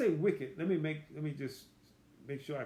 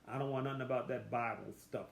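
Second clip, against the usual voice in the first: dismissive unbeliever; 3 semitones lower, 4 dB quieter, faster than usual. Retold or imitated. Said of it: "You go to talk to them".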